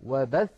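وبث with the final tha pressed hard, slow; stress on the tha. Shown as a demonstration. Teacher slowly pressing the tha in وبث. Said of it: "بالضغط على الثاء".

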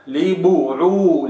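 لبعولتهن with full kasra on ب; slow recitation; correct baa. Shown as a demonstration. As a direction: keep the ب clear in لبعولتهن. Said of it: "وإنما".

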